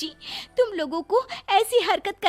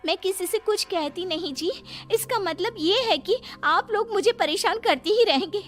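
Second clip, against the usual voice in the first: aggrieved protest building higher to an outburst; awakened anger; 4 semitones higher than usual. Acted. Overworked daughter-in-law finally protesting to the family, anger building. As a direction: let pent-up anger climb until it bursts. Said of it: "गुस्सा जाग उठता है".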